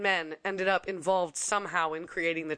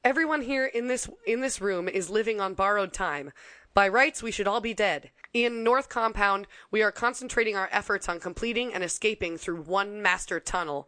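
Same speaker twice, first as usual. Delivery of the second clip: grave commander speech. Retold or imitated. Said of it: "Bushel said at one of their meetings".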